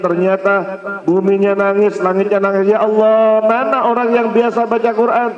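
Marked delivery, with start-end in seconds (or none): 2.7-5.3 high, plaintive cry to God; voicing the grieving sky, higher and pleading; lamenting sky. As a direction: mourn aloud like the weeping heavens. Sky personified lamenting the dead.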